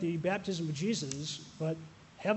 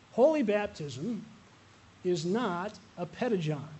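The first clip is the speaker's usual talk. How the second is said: slow, louder "Holy baptism" before the joke; emphatic punchline; 3 dB louder than usual. Real, not acted. Pastor joking with the congregation, slow emphatic punchline. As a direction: deliver the gag with mock gravity.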